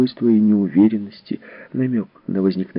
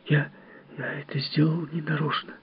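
put-on scared child; 5 semitones higher, 9 dB quieter than usual. Frightened child apologises.

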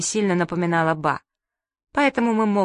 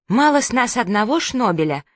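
angry; 4 semitones higher than usual. Acted. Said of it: "рассердилась мама".

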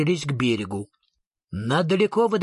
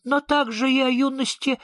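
dignified; 8 semitones higher than usual. A narrator's reading. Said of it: "с неожиданным достоинством".

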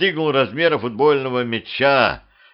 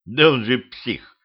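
grumbling. Acted. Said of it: "буркнул Петрович".

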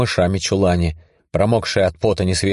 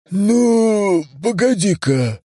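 musing otherworldly voice; 13 semitones higher, much slower than usual. Acted. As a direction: count it up slowly. Voice thinking.

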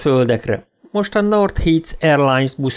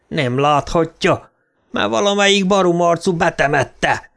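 roaring; 6 semitones higher than usual. Acted. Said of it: "ordította".

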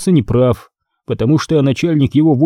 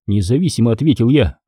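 ordinary delivery, nothing marked

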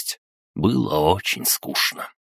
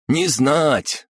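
high broken-speech crab creature; squeaky little crab answer; snappy clicking crab; 9 semitones higher than usual. A narrator's reading. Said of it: "ответил Крабогном". (высокий голос краба-монстра)

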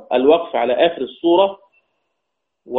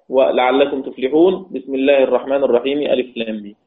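Quran recitation. Shown as a demonstration. Teacher demonstrating the first opinion, chanted. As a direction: draw out the words as in tarteel. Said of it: "القول الأول مثلهم مثل أي سورتين".

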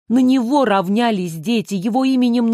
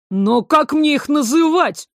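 puzzled; 5 semitones higher, 3 dB louder than usual. A narrator's reading. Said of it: "недоумевал Огонь".

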